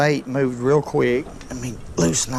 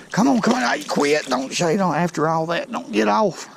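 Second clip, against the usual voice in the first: high, urgent come on; anxious pleading; 4 semitones higher than usual. Real, not acted. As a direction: beg the fish to stay hooked. Pleading as fish nears.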